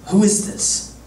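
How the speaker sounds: hushed, unvoiced question; David whispering as he overhears the giant; whispered. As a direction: breathe it like a startled whisper.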